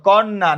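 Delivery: কন্যা said with a clear double ন; doubled consonant. Shown as a demonstration. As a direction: hold the ন of কন্যা across both syllables. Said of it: "উচ্চারণ করো".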